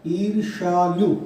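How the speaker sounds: ईर्षालु said slowly, each syllable spelt out; slow dictation. Shown as a demonstration. Teacher spelling ईर्षालु slowly for students. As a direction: stretch ईर्षालु for writing. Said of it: "ये देखिए, ईर्षालु शब्द हो गया".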